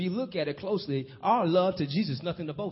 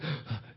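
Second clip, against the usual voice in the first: out-of-breath gasp; 6 dB quieter than usual. Retold or imitated. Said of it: "since he was so out of breath".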